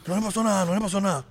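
lightly put-on childish protest. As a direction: insist like a child to mom. Plays child reassuring mother.

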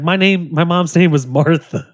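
Harry Potter quote. Retold or imitated. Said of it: "Harry Potter's like".

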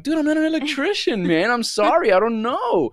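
high, pleading mock protest; hammed-up exasperated excuse; acted protest. Acts protesting to angry grandfather.

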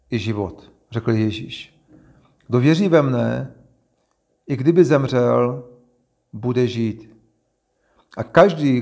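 measured, emphatic reading aloud; scripture reading. A narrator's reading. Reader reads Jesus and Martha's dialogue to listeners, scripture reading. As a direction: read each phrase out clearly, pausing between them.

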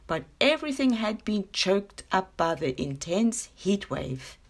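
unhurried storybook reading voice; story narration. A narrator's reading. Reading her short story to podcast listeners, gentle storytelling. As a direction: read it like a bedtime tale. Reads a children's story aloud.

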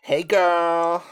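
drawn-out mock Black accent. Shown as a demonstration. Podcaster trying accents, mock Black accent. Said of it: "What's a black man's accent?".

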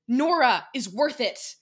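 loud, slow, high shout; shouting back. Acted. Lucy shouting back at Dekai, loud and defiant. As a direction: fire it back at him. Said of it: "Lucy shouted back".

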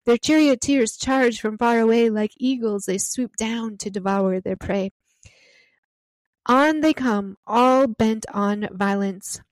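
reading the Lord's words with solemn, unhurried gravity; scripture reading. Acted. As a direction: let each image land, slowing near the end. Reads the Lord's reply aloud.

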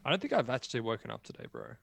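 ordinary talk, nothing marked

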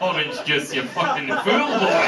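lightly voiced jeering Scot; mocking Scot. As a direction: imitate a local scoffing at an idiot. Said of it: "hear the Scots laughing at my idiocy".

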